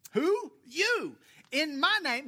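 high, loud preacher's call; preaching at full force. Acted. Preacher driving the verse home to his congregation, loud and high. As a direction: fire each word out to the pews.

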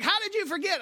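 high, loud mock disbelief; wife's disbelief. Wife asking how he forgot, high and loud. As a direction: squeak it out like an incredulous wife. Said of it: "And she's like".

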